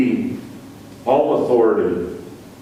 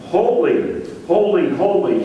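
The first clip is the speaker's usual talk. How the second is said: raised, ringing proclamation of holy, holy; seraphim crying holy; 4 semitones higher than usual. Retold or imitated. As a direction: lift each holy high like an angel's cry. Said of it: "magnifying the Lord by crying".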